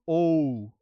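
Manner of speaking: "o" given a bent English glide. Shown as a demonstration. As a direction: let "o" slide like English "oh". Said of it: "they bend the words".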